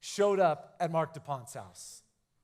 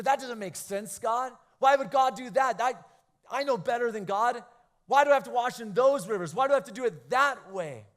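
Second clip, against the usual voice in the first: louder, quicker indignant whine at God; mock carnal complaint, pushed louder and faster; indignant protest; 4 semitones higher, 5 dB louder than usual. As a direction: argue back like you know better than God. Voicing a proud complaining mind.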